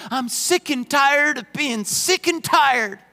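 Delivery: slow, fed-up stress on each "sick and tired"; exasperated. Retold or imitated. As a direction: say it like you've had enough. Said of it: "if they're really upset".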